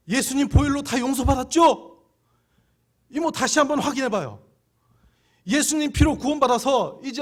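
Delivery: firm and insistent, pressing the question home; retold urging. Urging the grieving aunt on the phone.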